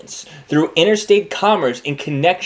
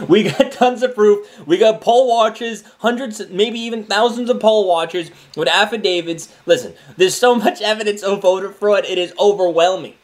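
excited; 7 semitones higher than usual. Real, not acted. Laughing, insisting on proof.

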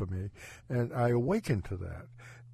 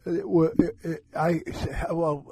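stuttering; 6 semitones higher than usual. Real, not acted. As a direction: trip over broken first words, unsure where to begin. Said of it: "I'm stuttering because I don't know".

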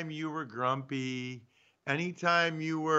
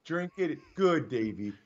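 coaxing wife; 5 semitones lower than usual. Pretend. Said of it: "be like".

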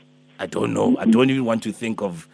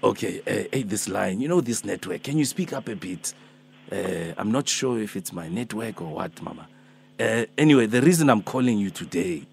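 put-on Alpheus, old man. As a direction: play a gentle old healer calling early, only a hint of age. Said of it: "I'm Alpheus, I'm Alpheus".

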